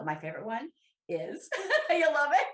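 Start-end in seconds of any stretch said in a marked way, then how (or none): 1.5-2.5 high, loud laugh through the words. Real, not acted. Sharing her favorite mirror answer, laughing. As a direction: laugh it out, delighted.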